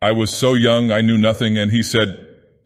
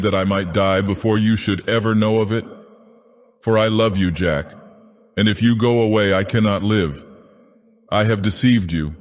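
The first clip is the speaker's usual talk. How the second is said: higher, strained voice breaking into pleading; strained, anguished confession; 3 semitones higher than usual. Acted. Sylvia confesses her past to Jack, strained and pleading. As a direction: plead through rising anguish. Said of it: "a voice changed and strained".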